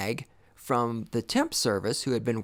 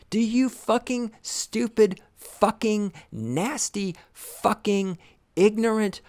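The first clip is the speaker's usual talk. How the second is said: yelling rant; 4 semitones higher, 4 dB louder, slower than usual. Acted. Ranting at millennials.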